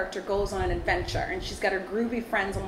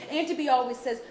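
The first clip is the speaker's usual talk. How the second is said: Auntie B voice; 3 semitones higher than usual. Acted. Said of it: "In your Auntie B voice?".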